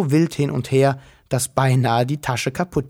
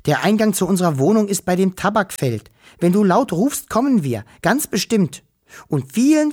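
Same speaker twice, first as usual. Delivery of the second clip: higher, bright small-creature voice; little Wawuschel voice; 6 semitones higher than usual. Acted. Wischel thanks the human girl, in a higher little voice. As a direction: sound like a tiny grateful forest creature.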